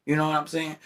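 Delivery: speaking in a put-on high voice; voice made high. Real, not acted. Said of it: "tried to make my voice high".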